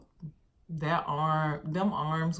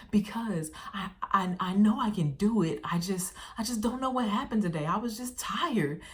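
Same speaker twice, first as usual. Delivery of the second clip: higher, stammering mock self-reproach; retold tired frustration; 4 semitones higher than usual. Tired girl explaining to her coach, mock frustrated plaint. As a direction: imitate a worn-out kid explaining herself. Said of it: "Just the way she was talking".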